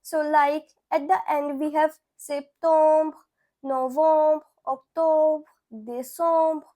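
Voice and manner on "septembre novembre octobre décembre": septembre, novembre, octobre, décembre, each closing on a light br; soft br endings. Shown as a demonstration. Teacher showing a shared ending pattern, soft br endings. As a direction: list septembre to décembre in French, evenly spaced. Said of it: "same ending pattern with the soft".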